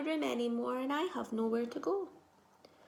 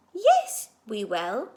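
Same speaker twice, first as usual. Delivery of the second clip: louder insistent yes; 8 dB louder, slower than usual. Acted. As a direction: push back harder the second time. Max insists more strongly.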